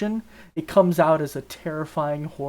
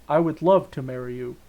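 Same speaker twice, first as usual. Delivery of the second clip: flat, emotionless monotone delivery; 3 semitones lower than usual. Pretend. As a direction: say it with no feeling, monotone. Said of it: "He's gotta be super, uh, monotone".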